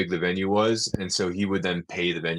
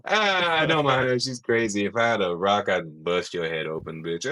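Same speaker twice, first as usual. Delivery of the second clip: Bernie Mac. Acted. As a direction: cry out, then settle into a mock threat. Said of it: "He's like".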